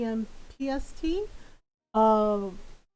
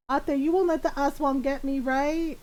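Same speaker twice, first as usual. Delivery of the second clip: slightly anxious, higher pleading question; mildly scared brother; 4 semitones higher than usual. Retold or imitated. Scared brother asking oldest sister for protection, mildly pleading. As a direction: seek reassurance like a worried kid, lightly imitated. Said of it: "he'd be, like, really scared".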